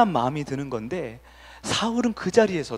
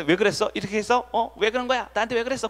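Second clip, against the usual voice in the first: a touch higher, hurt and whiny; hurt wife; 6 semitones higher than usual. Retold or imitated. Pastor imitating a sulking wife asking her husband why, mildly whiny. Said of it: "삐지면".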